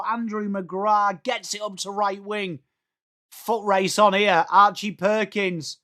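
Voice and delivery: running footy commentary, names drawn out; live play-by-play. Real, not acted. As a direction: follow the ball from player to player.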